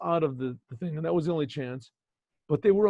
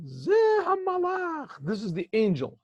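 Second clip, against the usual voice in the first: fake angel voice; 10 semitones higher than usual. Boy poses as an angel.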